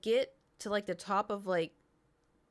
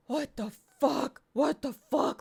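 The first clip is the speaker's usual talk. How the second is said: startled waking; 7 semitones higher, 6 dB louder than usual. Retold or imitated. Waking up shocked from nightmare.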